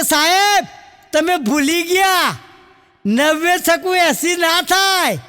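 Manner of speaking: put-on children calling out. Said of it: "બધા છોકરાએ તરત બૂમ પાડી".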